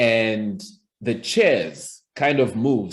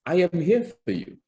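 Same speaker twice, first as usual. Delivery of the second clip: warm, friendly coach; 7 semitones higher, faster than usual. Shown as a demonstration. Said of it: "I, as a public speaking coach".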